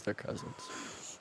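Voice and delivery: whispery filtered voice; garbled through a soundboard effect; distorted voice effect. Real, not acted. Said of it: "he's over here pushing buttons again".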